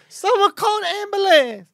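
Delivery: put-on very high, shrill, loud, dopey old-lady voice. Retelling what a woman shouted at the show, imitating an old lady sounding stupid. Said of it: "Why are you making her sound so stupid?".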